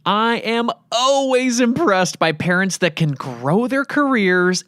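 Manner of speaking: upbeat outro read; podcast host outro. Acted. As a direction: wrap up the episode warmly.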